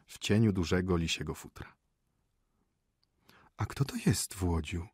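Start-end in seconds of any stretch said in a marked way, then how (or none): 3.6-4.9 hushed whispered question. Acted. Mother asking her son about the stranger, whispered. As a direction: whisper it so the guest won't hear. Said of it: "spytała szeptem matka".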